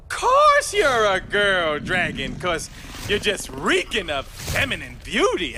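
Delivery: slow, drawn-out sweet talk; oozing, exaggerated admiration; smooth-talking flattery. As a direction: lay on the compliments, stretching the words. Sweet-talking the dragon to survive.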